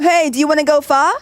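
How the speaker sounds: playful imitation of the invitation; mock Japanese friend. Japanese students inviting them out, lightly mimicked. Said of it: "they asked us".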